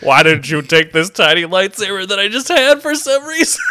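Mister Freeze Luke. Retold or imitated. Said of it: "Mister Freeze tinge".

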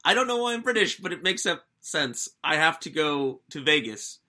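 hammed-up bad British accent, upper-class English put-on. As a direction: play a half-hearted posh Englishman retelling the plot. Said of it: "sorry with the bad British accent".

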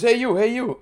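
hey-you holler, retold; calling out. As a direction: call after someone walking away. Retold man calling after someone.

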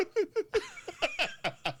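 high-pitched laugh; tickled, high giggling; laughter. Real, not acted. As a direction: laugh in a long, high run. Reaction after partner's deadpan reply.

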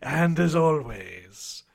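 slow spooky horror host sign-off; hammy Halloween host farewell; jack o lantern voice. Acted.

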